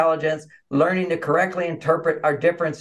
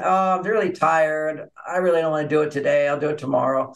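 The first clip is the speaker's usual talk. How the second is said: tired grumbling. Retold or imitated. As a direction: grumble half-heartedly, like someone too tired to bother. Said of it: "So that's his grumbles".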